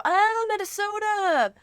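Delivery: mock Minnesota accent, high and slow. Host imitating listeners spotting a Minnesota accent. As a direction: drawl Oh, Minnesota like an up-north local. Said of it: "more people are gonna go".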